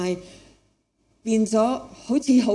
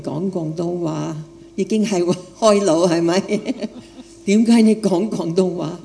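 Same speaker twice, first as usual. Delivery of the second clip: foreign accent Cantonese. Real, not acted. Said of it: "因為我係一個外國人，講廣東話".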